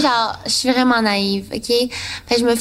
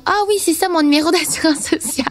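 naive high voice; 6 semitones higher than usual. Retold or imitated. Retold naive answer to scammer.

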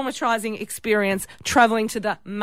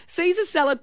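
usual speaking voice

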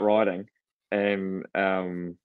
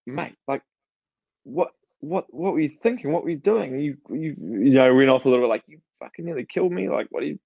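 higher-pitched, exasperated telling-off; mild rant; 4 semitones higher than usual. Retold or imitated. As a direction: retell going off at someone a little. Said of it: "going on a bit of a rant at him".

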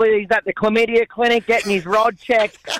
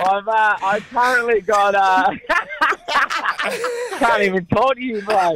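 trying to talk through laughing fits; too giggly to get the words out; real helpless laughter; 3 semitones higher than usual. Real, not acted. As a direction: keep breaking up mid-sentence. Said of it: "Just laughing our asses off".

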